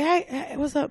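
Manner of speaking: high-pitched, would-be neutral Southern greeting; toned-down Southern accent. Retold or imitated. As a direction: imitate a Southerner trying to sound neutral. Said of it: "Just trying to not be Southern".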